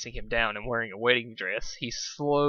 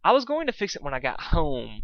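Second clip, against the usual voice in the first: improvised excuse; 5 semitones higher, 5 dB louder than usual. Acted. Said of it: "he improvised".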